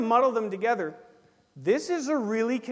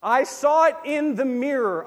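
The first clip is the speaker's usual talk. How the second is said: emphatic catchphrase; 6 semitones higher, 9 dB louder than usual. Shown as a demonstration. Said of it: "part of our vocabulary".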